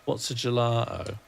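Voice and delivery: "gelato" with a glottal stop for the t; "gelato" with the t left out; own accent. Shown as a demonstration. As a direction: say "gelato" as "gela'o". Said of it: "I can't say gelato, but that is how I'd say it".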